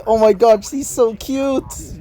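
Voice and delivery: high-pitched mock squeal, drawn out at the end; lightly acted fangirl squealing; mock fangirl scream. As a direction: gush like a swooning schoolgirl, half-screamed. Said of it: "all of the girls would instantly start screaming".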